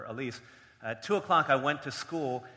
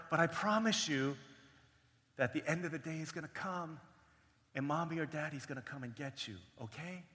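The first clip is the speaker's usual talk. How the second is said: soft promise, trailing quieter; gentle reassurance; 6 dB quieter than usual. Acted. Big brother promising sister that parents will return, gentle reassurance. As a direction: softly reassure a small child.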